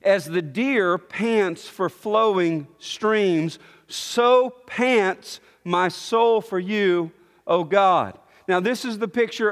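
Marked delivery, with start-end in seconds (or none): 0.0-3.6 scripture reading. Acted. 3.9-8.2 read slowly. Shown as a demonstration. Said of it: "notice how it starts".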